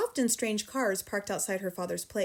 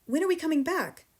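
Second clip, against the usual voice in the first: high, louder anxious question; a worried child; cried out; 7 semitones higher, 4 dB louder than usual. A narrator's reading. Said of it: "Matilda cried".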